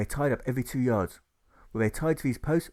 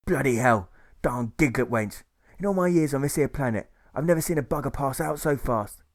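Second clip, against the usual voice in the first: angry hiss; 2 semitones higher, 4 dB louder than usual. Acted. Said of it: "He hisses like a snake".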